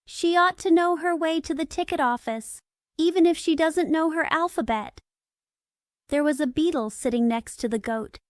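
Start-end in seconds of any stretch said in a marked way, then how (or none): 0.1-5.0 a goat's higher, raised proclamation; loud voice. Acted. Goat declares loudly in the railway carriage, higher loud voice. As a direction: announce it loudly, eyes shut. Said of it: "said in a loud voice".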